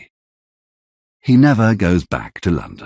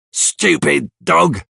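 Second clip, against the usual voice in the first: high, slow mock snarl at the dog; irritated outburst; 8 semitones higher, slower than usual. Bill finds his dog hiding in the room, annoyed outburst. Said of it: "he says".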